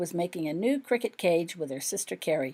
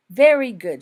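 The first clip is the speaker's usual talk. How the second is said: pleased with herself; 4 semitones higher, 11 dB louder than usual. A narrator's reading. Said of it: "she congratulated herself".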